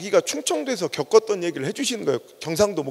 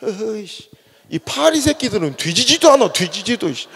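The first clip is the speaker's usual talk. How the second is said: put-on grumbling old man. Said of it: "갑자기 할아버지가".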